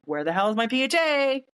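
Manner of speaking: high, climbing demand; retold impatience, pitch rising as it goes; exasperated. Chasing overdue paperwork.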